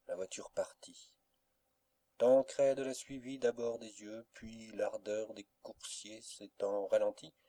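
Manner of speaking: ordinary delivery, nothing marked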